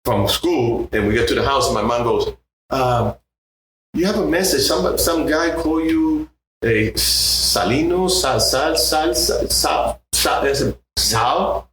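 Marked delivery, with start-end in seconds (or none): 2.7-11.7 mom's voice. Retold or imitated. Mom voiced in a story.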